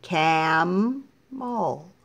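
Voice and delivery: slow, drawn-out Cam-el cut in two beats; teacher stretches "Camel" slowly, syllable by syllable; split into syllables. Shown as a demonstration. Teacher to class, slowly splitting "Camel" into syllables. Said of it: "Notice when I do syllables".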